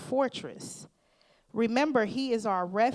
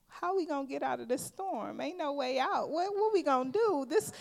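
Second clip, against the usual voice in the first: mock panic; 6 semitones higher than usual. Voicing panicked believers.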